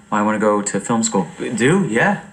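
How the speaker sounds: normal talking voice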